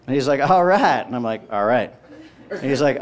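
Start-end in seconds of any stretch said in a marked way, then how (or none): 0.4-1.1 officer's all right. Retold or imitated. Officer repeats, exchange grows awkward. 1.5-1.9 lower, subdued reply; awkward echo. Retold or imitated. Comic echoes awkwardly, lower.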